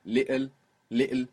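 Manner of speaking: "little" as li'le, throat catch for the t; Cockney glottal stop. Shown as a demonstration. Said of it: "It's exactly the same sound".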